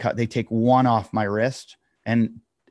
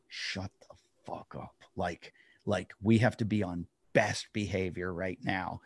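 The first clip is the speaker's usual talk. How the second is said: urgent whisper at his buddy; 3 semitones lower, 9 dB quieter than usual. Retold or imitated. Telling his mouthy buddy to shut up, whispered. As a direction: hiss it under your breath, urgent. Hissing at buddy in cop car.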